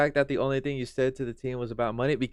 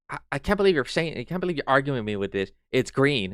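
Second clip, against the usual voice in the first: mocking stubborn arguer; 2 semitones higher, faster than usual. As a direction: mimic someone who refuses to admit they're wrong. Voicing stupid arguer in quarrel.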